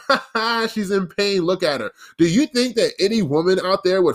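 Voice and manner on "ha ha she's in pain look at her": mocking laugh. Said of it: "a man was to laugh and go".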